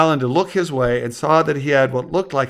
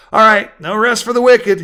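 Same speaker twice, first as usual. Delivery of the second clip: raised, louder, with a smile; smiling; 8 semitones higher, 8 dB louder than usual. A narrator's reading. Husband heading back to unload bikes, smiling. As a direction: toss it off with a smile. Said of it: "he added with a smile".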